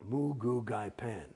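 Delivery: slow, deliberate made-up words; slow drill gibberish. Shown as a demonstration. Actor giving a gibberish example to the host, slow. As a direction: intone the nonsense words slowly. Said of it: "you can talk gibberish".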